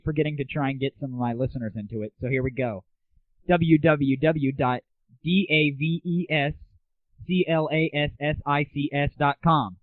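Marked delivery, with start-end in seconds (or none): 3.5-9.8 spelled out slowly. Shown as a demonstration. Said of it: "that was davesclassics dot com".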